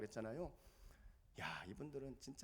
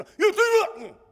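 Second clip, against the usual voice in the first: slow loud exclamation; 20 dB louder, much slower than usual. Retold or imitated. Commander jabbing the soldier.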